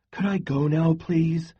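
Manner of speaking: restless, impatient asking. A narrator's reading. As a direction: push to be let go, fed up. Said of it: "she asked impatiently".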